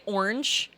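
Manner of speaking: "orange" with a Southern Illinois twang; accented orange. Shown as a demonstration. Explaining to viewers where the hidden accent slips out, accented "orange". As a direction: let the home accent slip on "orange". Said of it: "you'll hear it, right, when I say".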